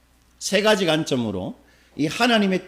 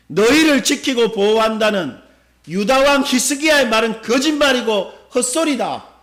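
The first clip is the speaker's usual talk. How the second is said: raised, emphatic mock denunciation, easing at the end; imitated scornful rebuke; 3 semitones higher, 3 dB louder than usual. Assyria dismissing Hezekiah's promise to Judah, imitated scornful rebuke. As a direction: voice the taunting enemy, pitched higher. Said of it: "아수르가 하나님을 꾸짖고 비방하고 야단을 치고".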